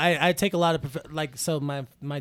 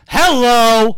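louder beaming host greeting; sitcom host hello; 2 semitones higher, 11 dB louder than usual. Shown as a demonstration. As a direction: welcome the audience like a TV host. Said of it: "sitcom host?".

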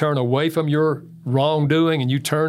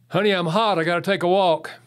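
urgent warning; 5 semitones higher than usual. Retold or imitated. Retold husband warns he is angry.

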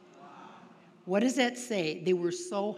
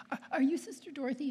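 higher, hesitant, lightly tearful imitation; tearful caller; 6 semitones higher, faster than usual. Crying girl phones the nun who wrote the book, mildly tearful. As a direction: imitate a caller close to tears, stammering. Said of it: "And she's crying".

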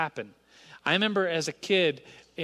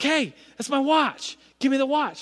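put-on high, loud childish protest; outraged kid; 8 semitones higher, 4 dB louder than usual. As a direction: whine it like a wronged little kid. Kid confronting classmate over watch.

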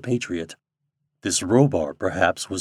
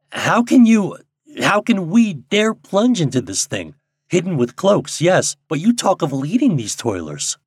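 much higher, louder alarmed protest; alarmed Charlie; 9 semitones higher, 5 dB louder than usual. A narrator's reading. Charlie protesting to Derek about the plunge, alarmed and loud. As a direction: Charlie balking at the danger, voice rising in alarm.

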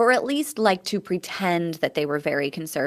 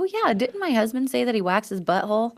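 mock surprised thought; 3 semitones higher, faster than usual. Acted own thought, high squeal.

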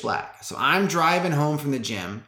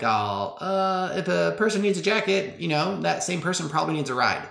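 higher-pitched inner nudge, lightly put on; raised pitch, hesitant suggestion; lightly voiced Holy Spirit; 5 semitones higher than usual. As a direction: gently play a prompting voice in the head. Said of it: "the Holy Spirit's like".

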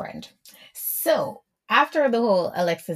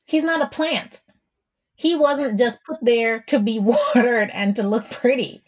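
louder, higher, laughing indignation; fired up; 4 semitones higher, 5 dB louder than usual. Real, not acted. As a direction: drive it home with a laugh. Passionate defense, laughing.

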